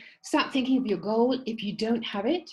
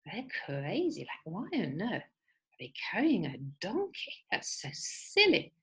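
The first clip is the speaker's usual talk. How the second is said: mocking onlookers; 4 dB quieter than usual. Passersby jeer at man carrying donkey, scoffing breathily. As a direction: jeer at the silly sight. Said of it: "people looked at them and they said".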